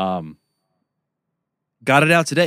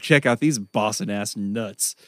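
slow, drawn-out doctor's line; a hint of a wry doctor; doctor's remark; slower than usual. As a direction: drag it out like an amused doctor. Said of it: "He was like".

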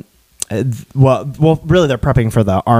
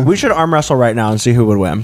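talking while chewing ice; words round a mouthful of ice. Real, not acted. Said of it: "Sorry, I'm, like, chewing into the mic".

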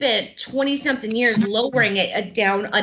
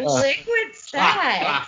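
sultry; 3 semitones higher, much slower than usual. Pretend. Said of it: "my voice sounds like Liquid Sex".

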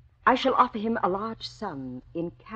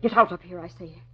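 louder, firm command to get out; angry order; 3 dB louder than usual. Acted. Woman orders the armed intruder out, loud and firm. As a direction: throw the intruder out.

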